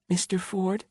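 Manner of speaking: put-on high, small scared child's voice; whimpering little girl. A narrator's reading. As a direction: whimper it like a frightened five-year-old. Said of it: "she said in a whimper".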